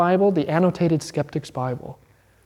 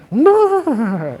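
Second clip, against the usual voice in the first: flat no; 7 semitones higher, 4 dB louder than usual. Retold or imitated. Emphatic rebuttal.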